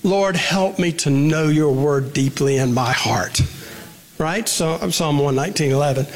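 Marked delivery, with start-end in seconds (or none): 0.0-3.4 prayer. Shown as a demonstration. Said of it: "Turn the passage into a prayer".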